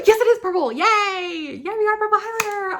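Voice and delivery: high, loud burst of joy; delighted squeal. Real, not acted. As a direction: cheer with a gasp and squeal. Delighted the highlighter is purple.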